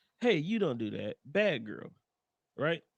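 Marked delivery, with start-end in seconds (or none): 0.2-1.9 put-on nice, friendly, gentle, kindly scolding tone. Telling the story of Elsa scolding Dren, retelling it as mock gentle scolding. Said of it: "I'm saying this in a nice way".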